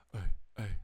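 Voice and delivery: mock hype call; friends hyping. Friends at the bar hyping him up, rowdy call.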